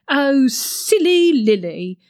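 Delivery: slow, drawn-out patronising imitation of a nosy friend; mocking Beryl. Lily mimicking bossy Beryl, slow and patronising. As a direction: stretch it out like you're talking down to a child. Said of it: "Silly Lily is so patronising".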